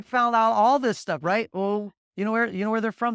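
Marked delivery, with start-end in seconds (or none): 1.5-1.9 mimicked Midwestern "Oh"; Midwest accent. Shown as a demonstration. Repeating the dialect clue for trainees, Midwest accent. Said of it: "like, the Midwest".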